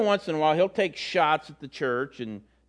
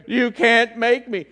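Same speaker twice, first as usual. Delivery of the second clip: put-on slow, louder worn-out kid vowing never again; exhausted daughter; 6 semitones higher, 9 dB louder, slower than usual. Daughter after her first race, slow and loud. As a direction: drag it out like a spent runner.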